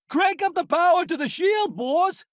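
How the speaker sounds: high, urgent battle shout. Acted. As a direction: yell the order over the fight. Battle orders in combat.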